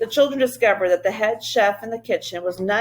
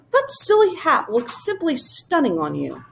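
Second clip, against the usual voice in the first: high, quick and eager creature voice; a bouncy little creature popping in; high fluttery royal creature; Whangdoodle voice; 6 semitones higher than usual. Acted.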